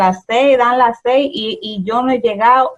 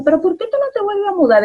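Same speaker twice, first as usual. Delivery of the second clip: quoting people; 10 semitones higher, faster than usual. Retold or imitated. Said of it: "mucha gente me dice".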